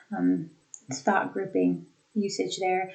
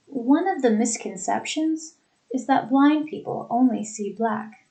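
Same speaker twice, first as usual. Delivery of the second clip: "One of the misconceptions" pitched up, short break, smooth remainder; fluid thought groups; 3 semitones higher than usual. Shown as a demonstration. Teacher repeating for the class, smooth groups split after "misconceptions". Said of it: "how it's fluid and smooth".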